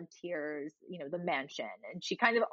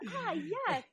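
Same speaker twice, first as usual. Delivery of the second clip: mock posh Sheffield; 12 semitones higher than usual. Sheffield quoted.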